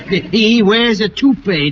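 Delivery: chuckling through the words, a bit slow; laughing tease. Acted. Mayor teasing Colin before Susie, chuckling. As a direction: laugh as you spill his secret.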